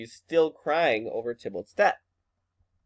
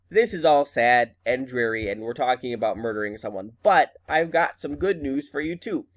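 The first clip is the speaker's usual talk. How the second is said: mother with good news. Retold or imitated. Teacher voices the mother paraphrased.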